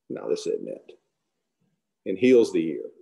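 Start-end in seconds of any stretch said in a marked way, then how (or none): 0.1-1.0 gentle rebuke. Retold or imitated. Jesus stops Peter at arrest.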